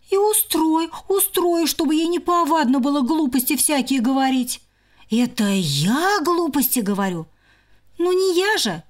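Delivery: high squabbling sister; bickering squirrel. Acted. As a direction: snipe at her sister.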